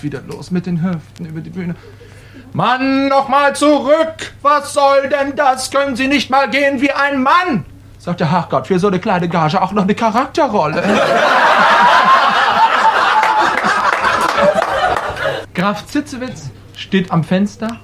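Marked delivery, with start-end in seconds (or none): 2.5-7.6 exasperated scolding. Acted. Director scolding the hip-swinging actor. 10.9-15.5 big laugh. Real, not acted. Audience or speaker laughs.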